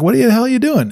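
high, startled yelling at them; alarmed ride operator. Retold or imitated. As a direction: shout it like a panicked operator. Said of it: "the operator's like".

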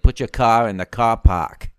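a light Boston accent, just a hint; lightly voiced Boston accent on the car park line. Shown as a demonstration. Explaining American car park usage, lightly voiced Boston accent. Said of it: "that Boston accent".

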